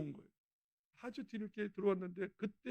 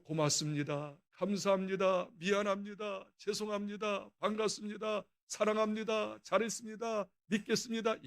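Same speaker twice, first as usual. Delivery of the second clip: tender greetings. Shown as a demonstration. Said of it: "이런 천국방을 만들어가지고".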